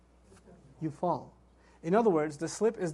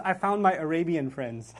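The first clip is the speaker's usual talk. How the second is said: laughing; 4 semitones lower than usual. Retold or imitated. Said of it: "He says".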